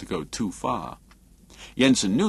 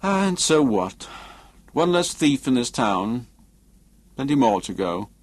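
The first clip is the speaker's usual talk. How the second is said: lightly voiced dismissive Jensen; 4 semitones higher than usual.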